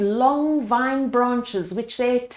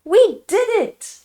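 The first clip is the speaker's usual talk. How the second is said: higher, louder triumphant cheer; joyful shout; 11 semitones higher, 6 dB louder than usual. A narrator's reading. Mandy celebrates with the villagers, shouting. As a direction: celebrate with everyone. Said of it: "shouted Mandy".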